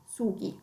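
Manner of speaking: SUGHI repeated softly with a hard g. Shown as a demonstration. Teacher repeating the plural for learners, hard g in "sughi". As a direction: keep the g hard in "sughi", not a j sound. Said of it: "mantenere il suono duro della G".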